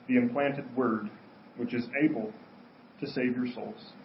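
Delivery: solemn Bible reading; scripture reading. Acted. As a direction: read the verses with reverence. Reads scripture aloud.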